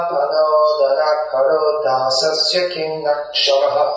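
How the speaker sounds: slow, measured verse chanting over music; prayerful chant of a Sanskrit verse; Sanskrit recitation. Acted.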